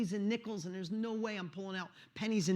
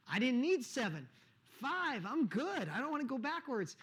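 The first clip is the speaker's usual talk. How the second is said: choked-up pleading; 6 semitones higher than usual. Retold or imitated. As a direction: plead that you don't want to go backwards, voice rising. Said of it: "I was getting emotional".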